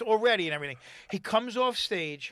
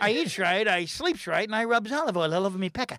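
Popeye; 2 semitones lower than usual. Retold or imitated. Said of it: "And he's doing Popeye".

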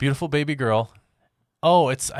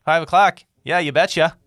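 higher, louder mock Canadian accent; 7 semitones higher, 8 dB louder than usual. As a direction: ham up a northern Canadian accent with a big eh. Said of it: "So they're Canadian".

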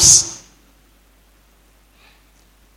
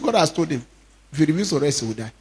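hushed grave; 3 semitones lower, 9 dB quieter, faster than usual. Real, not acted. Grave quiet report.

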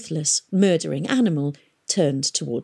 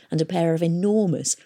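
ordinary delivery, nothing marked

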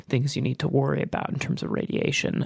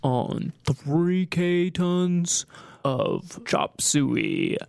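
over walkie talkie; slower than usual. Pretend. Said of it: "breaker, breaker".

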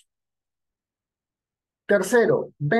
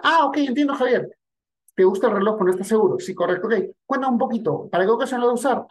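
bright, higher, eager-to-help seller; friendly salesman; 4 semitones higher, faster than usual. Retold or imitated. Friendly clerk asks the customer about the watch, upbeat and higher. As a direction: lift it up like a helpful store clerk. Good salesman roleplayed in a sketch.

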